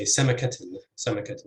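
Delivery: سمكة stressed on the first syllable. Shown as a demonstration. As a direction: put the stress at the start of سمكة. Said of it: "with stress on".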